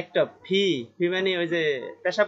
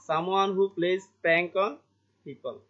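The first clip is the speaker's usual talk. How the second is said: slow reading; much slower than usual. Shown as a demonstration. Teacher reads definition slowly.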